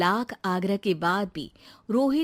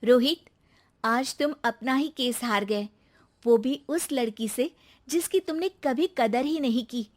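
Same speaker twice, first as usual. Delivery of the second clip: put-on higher young woman's voice, cool victory; triumphant ex-wife; 4 semitones higher than usual. Wife telling her ex-husband outside court he lost, triumphant. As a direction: tell him he lost, pitched up.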